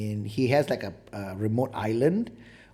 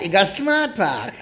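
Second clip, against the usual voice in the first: slow, higher, teasing repeat of the slogan; mock slogan; 7 semitones higher, 4 dB louder, slower than usual. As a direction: savour the slogan mockingly. Mocking the advert slogan.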